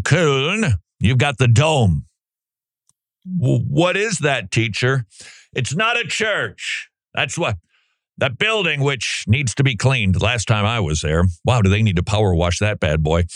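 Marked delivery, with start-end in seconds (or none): 3.2-5.1 slow, lightly voiced curious kid; imitating a student. Student asking the art teacher. 5.5-10.2 mock teacher. Teacher dodging the student's question.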